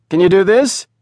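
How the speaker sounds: high, loud challenge; a loud cocky show-off. A narrator's reading. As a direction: dare the kid to copy him. Smoke blower shows off.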